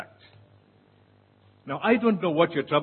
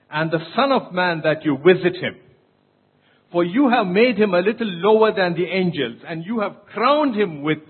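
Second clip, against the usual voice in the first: scripture reading; 4 dB louder than usual. Acted. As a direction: proclaim the psalm to the congregation. Reads the psalm aloud.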